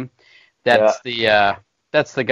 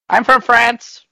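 put-on French accent; 10 semitones higher, 7 dB louder, much slower than usual. Mocking a French guy.

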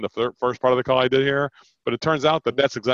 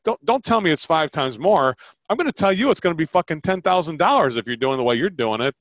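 worked-up scolding, raised pitch; mild mock yell; 4 semitones higher than usual. Shown as a demonstration. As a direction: push back in a half-yelled, higher voice. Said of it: "like I'm yelling right now".

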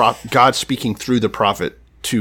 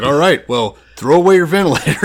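laughing while voicing the doctor; laughing through a quote; 4 semitones higher, 4 dB louder than usual. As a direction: giggle out the words.

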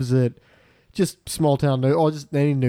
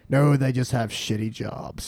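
Buck McCoy voice; slower than usual. Retold or imitated. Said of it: "doing this voice enough".

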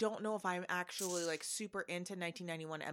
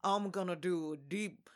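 Southern drawl; slower than usual. Acted. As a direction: drawl it like a Brit doing Southern, R's dropped. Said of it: "do a Southern accent like to do a drawl".

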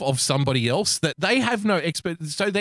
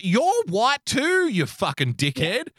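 mock angry rant; 9 semitones higher, slower than usual.

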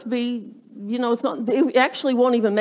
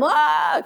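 high-pitched mock scream; mock yell; 6 semitones higher than usual. Parent driving kids to church, mock yell. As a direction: imitate a parent yelling in the car. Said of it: "you're yelling at them".

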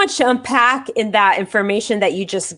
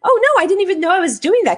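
retold protest; 11 semitones higher, much faster than usual. Acting own surprised reply to aunt.

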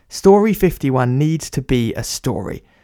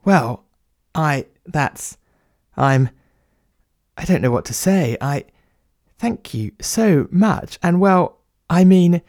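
halting, with a touch of emotion; touched, lost for words; 3 semitones higher than usual. Acted. Writer thanking the plumber for his friendship, haltingly touched. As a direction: stumble through grateful, broken-off phrases. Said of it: "The writer was touched".

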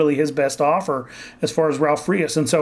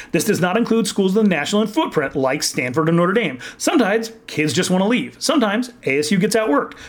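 higher, brisk announcer read; 3 semitones higher than usual. Shown as a demonstration. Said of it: "my announcer voice on".

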